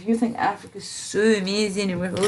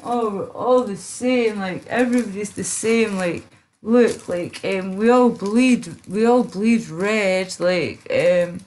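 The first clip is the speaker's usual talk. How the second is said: mocking quote; 3 semitones higher than usual. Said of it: "You know that whole, like, D N A thing".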